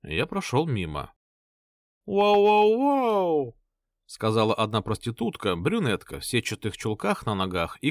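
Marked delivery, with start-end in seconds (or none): 2.1-3.6 high, slow drawn-out wow; flirty catcall. Acted. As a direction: coo it slowly at a passerby.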